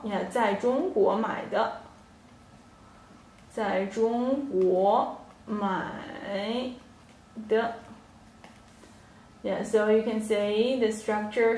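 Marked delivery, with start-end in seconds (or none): 3.5-7.7 slow model sentence. Shown as a demonstration. Teacher repeats it slowly for her students to copy. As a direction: slowly spell out 在中国买的 for learners. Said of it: "teacher repeats it slowly".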